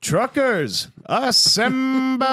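booming drawn-out hero call; rally the troops like a cartoon superhero; hammed-up superhero battle cry.

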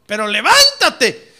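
loud, drawn-out exhortation to rise; urgent command. Acted. The Lord urging the contented beloved, loud urgent plea. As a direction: push it out forcefully, stretching the word.

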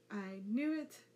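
loud, indignant cry; excited shout. Acted. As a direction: shout it in mock outrage. Sasuke's dramatic outburst.

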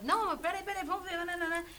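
polite. Retold or imitated. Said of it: "Ela sempre educada".

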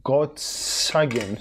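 drawn-out, tentative attempt at the name Gottsagen; struggled pronunciation. Real, not acted. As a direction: stretch out Gottsagen slowly and unsurely. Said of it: "δεν μπορώ να σου προφέρω καλά". (διστακτική, αργόσυρτη προφορά του Gottsagen)

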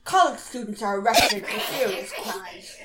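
mock-serious narrator voice breaking into laughter; dramatic voiceover. Johnny narrating crime statistics on the show, mock dramatic voiceover. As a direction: intone it like an overblown documentary voiceover. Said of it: "like a really dramatic voiceover".

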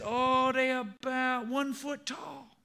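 high, drawn-out Cajun voice; Cajun accent. Acted. Thibodeau reporting to Boudreaux, slow high Cajun accent. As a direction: stretch it out slowly in high comic Cajun. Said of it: "start talking like a Cajun".

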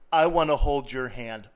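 I want to hold your hand said laughing at a normal pace; God line through a laugh. Acted. Preacher laughing as he voices God's tender offer. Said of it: "by God saying".

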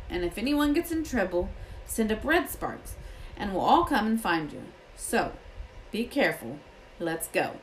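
a touch of rustic gamekeeper; lightly voiced Hagrid. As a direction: lightly voice the gamekeeper giving instructions.

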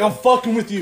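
loud, high, laughing imitation; busting up laughing. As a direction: laugh it out as the prankster. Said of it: "he just started busting up laughing".

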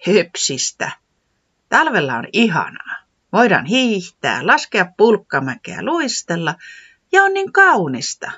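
high excited weatherman explaining; eager weatherman. Acted. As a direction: gush about winter like a child. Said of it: "säämies selitti".

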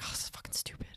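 muttered under breath; whispered disgust. Retold or imitated. Fed up with dating apps, whispered grumble. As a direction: grumble to yourself.

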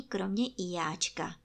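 ordinary delivery

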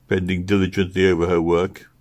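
plain reading voice

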